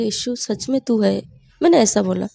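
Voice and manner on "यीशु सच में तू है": awed hush. Retold or imitated. Whispering in awe on the train.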